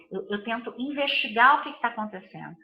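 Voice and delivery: normal talking voice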